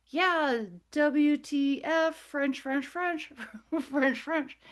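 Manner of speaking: mock cursing. Teller cursing at the aliens, high mock outburst. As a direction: act out cursing with stand-in words.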